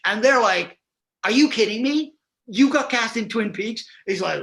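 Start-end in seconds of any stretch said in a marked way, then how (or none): 1.2-3.8 high, incredulous outburst; mock astonishment. Drama students hearing of the carpenter's casting, mock astonished. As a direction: imitate floored students, pitched well up. Stunned students react to big news.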